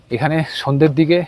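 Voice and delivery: breathless from the climb; puffing between phrases; out of breath. Real, not acted. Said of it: "হাঁপিয়ে গেছি". (হাঁপাতে হাঁপাতে)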